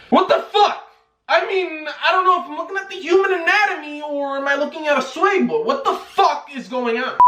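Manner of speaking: high, shocked laugh through words; cracking up at what he sees; laughing in disbelief. Real, not acted. Shocked reaction to Josh's photo.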